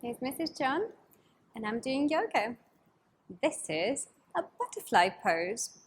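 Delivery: put-on bright, singsong voice for kids; cheery children's host; overbright kids party host. Kids yoga teacher greeting.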